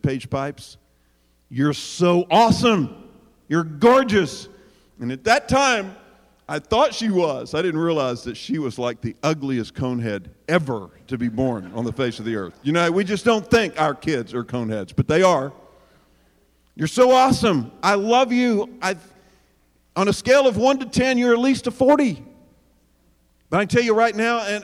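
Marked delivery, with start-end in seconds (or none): 0.0-4.5 adoring dad. Retold or imitated. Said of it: "I pulled her up to my face and I said". 16.8-22.2 higher and louder, gushing over his daughter; shower her with praise; gushing dad. Retold or imitated. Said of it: "have some kind of a conversation like that".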